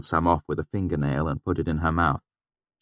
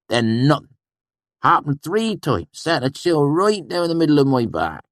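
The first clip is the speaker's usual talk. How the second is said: awed swineherd; 10 semitones higher, 5 dB louder than usual. A narrator's reading. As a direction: paint the flames big and strange. Sheem ends his tale.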